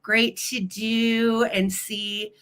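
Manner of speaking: slow "Great to do and see" with the words tripping over each other; tongue slip. Real, not acted. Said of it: "I can't even talk".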